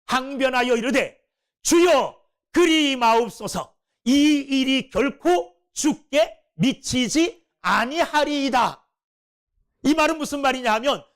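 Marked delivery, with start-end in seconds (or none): 1.6-8.8 Peter protesting his master, drawn out; 베드로의 책망하는 어투; rebuking tone. Retold or imitated. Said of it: "책망하는 어투로".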